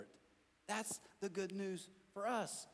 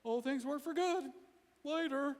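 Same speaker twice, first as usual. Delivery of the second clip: higher, breezy brush-off; glib Christian; 8 semitones higher than usual. Pretend. Preachy friend brushing off someone hurting, glib and high. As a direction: toss it off like a pat answer. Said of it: "don't be Johnny Christian or Susie Christian".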